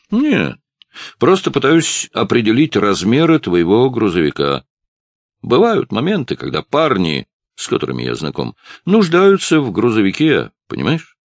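sly hint. Acted. Ralph hinting at stolen cargo.

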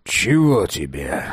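slow, grim, curt question; a hint of grim dryness; gloomy and dry. A narrator's reading. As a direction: ask it flatly and sourly, unwelcoming. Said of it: "мрачно и сухо спросил он".

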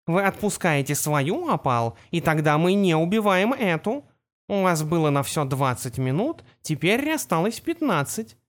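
lightly voiced cartoon kitten, menacing; a hint of sweet kitten voice. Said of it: "голосом котёнка Пипа".

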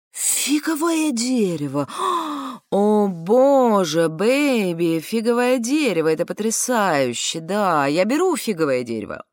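breathless, gushing delight; excited. Retold or imitated. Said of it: "Мужик взволнованно".

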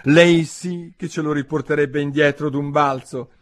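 high, emphatic declaration. A narrator's reading. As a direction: announce it aloud to nobody in particular. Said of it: "disse Alice alzando la voce".

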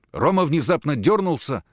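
ordinary delivery

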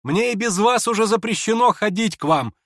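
the prince calls after the departing lady; calling after her. Acted. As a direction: call out so she hears it down the hall. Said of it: "крикнул князь ей вслед".

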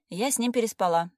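выше и громче, с вызовом; выпалить признание залпом; отчаянное признание. A narrator's reading. (героиня выпаливает признание подруге)

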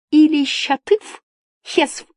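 put-on high, joyful old woman's voice; delighted. A narrator's reading. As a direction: exclaim happily, pitch well up. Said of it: "обрадованно сказала женщина".

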